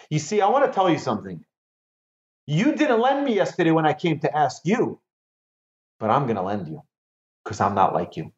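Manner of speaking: lend it grudgingly, with a touch of a slight; mildly bitter grudge. Acted. Teacher voicing a grudge-bearer lending anyway, mildly bitter. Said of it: "throw in the bitter words".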